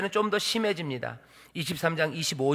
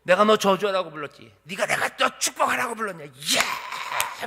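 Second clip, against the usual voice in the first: enraged. Acted. Balak berating Balaam for blessing, acted rage. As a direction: rant in rising outrage to a yelled finish. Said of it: "노하면서 손뼉을 막 치면서 얘기하는 거예요".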